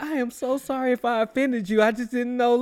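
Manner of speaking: over-apologize in a high voice; imitating the apologetic dude. The dude apologizes for calling him orphan, high put-on voice. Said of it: "it's like".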